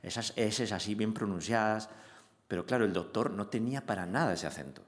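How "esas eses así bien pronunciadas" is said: lightly demonstrated Medellín accent; a touch of Paisa accent on the sounds being praised. Shown as a demonstration. Actor showing the Medellín sounds he practised, light Paisa accent. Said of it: "un acento más paisa, de, más de Medellín".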